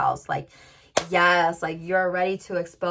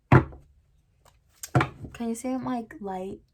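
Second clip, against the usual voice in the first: card's voice; 4 semitones higher, much slower than usual. Pretend. Card energy voiced asking.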